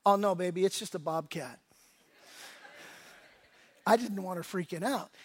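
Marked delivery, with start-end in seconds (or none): 0.0-1.6 soothing fib. Retold or imitated. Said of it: "and I go".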